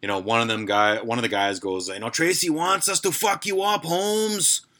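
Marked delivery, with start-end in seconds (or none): 2.1-4.7 high, put-on Latino gangster accent; bad Latino gangster accent. Prank caller naming Tracy in a fake Latino gangster accent. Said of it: "shitty Latino accents".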